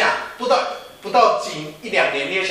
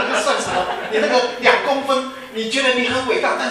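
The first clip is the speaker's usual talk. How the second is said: laughing while talking; 7 semitones higher, 5 dB louder than usual. Real, not acted. Laughs mocking height obsession.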